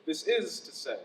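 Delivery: low, soft landing on the phrase; soft, low repeat of the stock phrase; dropped-down cliché. Shown as a demonstration. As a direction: let it fall low and quiet.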